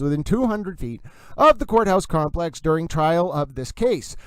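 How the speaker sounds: reading a court order in a Massachusetts accent; emphatic Massachusetts accent, r's dropped. Shown as a demonstration. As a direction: put on a Massachusetts accent for legal text. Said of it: "That's a Massachusetts accent".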